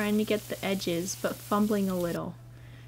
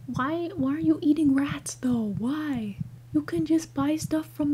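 whisper; 4 semitones higher than usual. Real, not acted.

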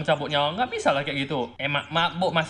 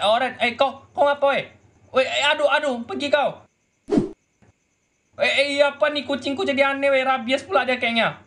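higher, louder panicky cries at the cat; panicked yelp; 10 semitones higher, 3 dB louder than usual. Acted. Owner panicking as his cat turns wild, higher and louder. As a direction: recoil from a cat gone mad. Strange cat attacks at night.

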